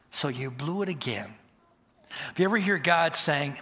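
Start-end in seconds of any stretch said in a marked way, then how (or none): 0.1-1.3 soft, low voice in the ear; imitated accusing whisper. Supposed voice of God in a believer's ear, half-whispered. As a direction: lightly mimic a whispering accuser. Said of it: "whispering in your ear".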